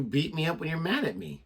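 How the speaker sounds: loud, high mock-outraged complaint; mock accusing. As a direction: pretend to be wronged, loudly. Mock quarrel between hosts.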